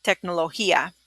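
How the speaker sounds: "tecnología" said quickly and lightly; fast. Shown as a demonstration. Teacher showing the fast version, quick. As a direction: rattle it off at normal speed. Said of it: "So when you say it fast".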